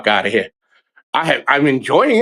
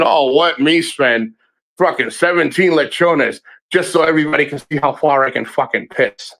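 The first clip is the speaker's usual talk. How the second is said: mock boast. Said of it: "going out there saying".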